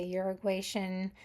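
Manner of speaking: Uruguayan with an Argentine Spanish zh for the Y; Spanish accent. Real, not acted. Crystal reader naming where the amethyst is from, slight Spanish accent. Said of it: "that's my little Spanish accent".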